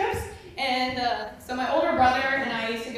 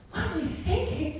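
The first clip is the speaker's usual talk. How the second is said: grandpa scolding; 6 semitones higher, 3 dB quieter than usual. Retold or imitated. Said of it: "He goes".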